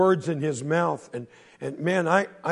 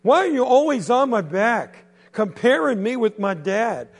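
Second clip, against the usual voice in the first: loud, higher, fed-up outburst; angry teen; 5 semitones higher, 5 dB louder than usual. Acted. Teenage boy yelling back at the bully, angry and loud. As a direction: get right in his face and let it out.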